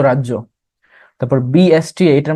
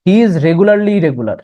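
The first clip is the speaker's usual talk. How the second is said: slow example read; 4 semitones higher, 3 dB louder, much slower than usual. Shown as a demonstration. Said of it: "যেমন".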